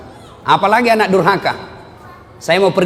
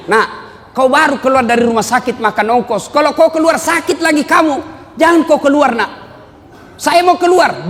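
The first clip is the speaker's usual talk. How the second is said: scolding mother; 9 semitones higher than usual. Retold or imitated. Mother forbids son, then son answers.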